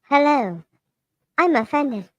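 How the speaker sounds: flat monotone robot voice. Shown as a demonstration. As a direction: read it like a machine. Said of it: "I think I did it".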